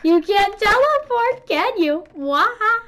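high mocking taunt with cackle; teasing villain gloat. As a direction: rub it in like a cartoon villain. Gloating at stuck opponent.

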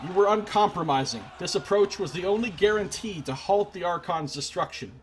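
measured storyteller read; dramatic narrator reading; game text narration. Acted. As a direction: read the outcome like a chronicle. Reads game narration aloud.

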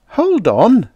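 high, loud interruption; urgent call. A narrator's reading. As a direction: call out to stop someone. Calling to stop someone leaving.

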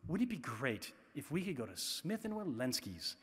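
softly wistful son, a touch of longing; mild wistful kid. Retold or imitated. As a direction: say it dreamily, like a wish. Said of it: "in this very wistful way".

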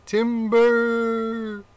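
high loud call of timber. Acted. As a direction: shout it as the tree falls. Tree falls, rat calls out.

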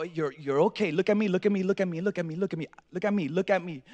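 soft, repeated dad's plea for attention; steady a hurt child quietly; hushed, insistent retold comforting; imitating calm reassurance. Calms bleeding son in story.

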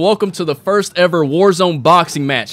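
mock boxing ring announcer. Announcer to crowd at first Warzone boxing match, mock ring announcer. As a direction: present the fighters like a ring emcee.

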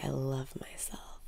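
softly whispered affirmation; hushed self-love mantra. Shown as a demonstration. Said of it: "Breathe in and say".

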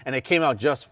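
muffled by cloth mask; speaking behind fabric covering; through a face mask. Real, not acted. Seen 2: Black cloth mask covers nose and mouth until he pulls it off.

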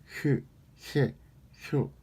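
syllable drill with pen bitten; pen in teeth. Shown as a demonstration. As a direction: bite the pen and articulate. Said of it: "이 볼펜을 물고". (볼펜 물고 발음 연습)

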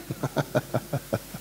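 soft breathy laugh; low-level chuckling after a punchline; quiet amused laugh; chuckle. Real, not acted.

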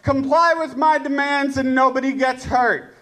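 lightly acted terrorist listing demands; mock hostage taker. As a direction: issue absurd demands, spaced out item by item. Playing hostage taker issuing demands.

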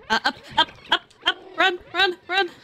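urgent cheering on. Real, not acted. Urging the cat on in game.

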